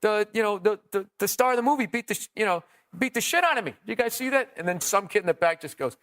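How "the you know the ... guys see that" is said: desperate comic. Retold or imitated. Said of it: "He goes".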